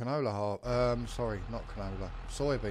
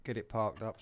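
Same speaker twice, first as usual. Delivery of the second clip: talking around a vape; words muffled by a vape; vape in mouth. Real, not acted. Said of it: "Sorry, my vape in my mouth then".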